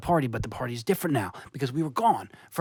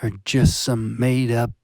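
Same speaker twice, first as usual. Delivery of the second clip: intense demanding; 3 semitones lower, 7 dB louder than usual. Acted.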